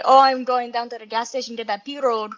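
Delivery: a light Cajun accent, only a hint of it. Shown as a demonstration. Woman showing a friend how Cajun sounds, light Cajun accent. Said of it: "for a Cajun accent".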